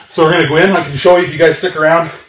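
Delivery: talking out of breath after a workout; winded, catching breath between words. Real, not acted. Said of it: "Sorry, I'm out of breath".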